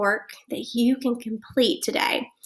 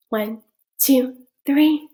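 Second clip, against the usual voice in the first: building count; slower than usual. Acted. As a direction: count up to a big reveal. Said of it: "counting up to the answer".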